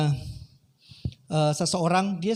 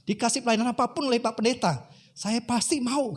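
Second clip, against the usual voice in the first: raised-pitch imitated self-justifying; protesting; 5 semitones higher than usual. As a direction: plead his case to God, mildly indignant. (membela diri sambil protes)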